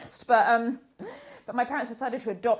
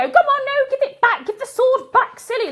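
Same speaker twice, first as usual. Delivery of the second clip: put-on higher, louder pleading with a kid; coaxing a child; 11 semitones higher, 7 dB louder than usual. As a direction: chase him and coax the sword back. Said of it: "run after him and go".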